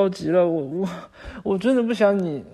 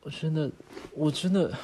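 usual speaking voice

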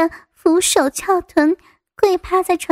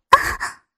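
startled cry. Acted. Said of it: "林娜一声惊呼".

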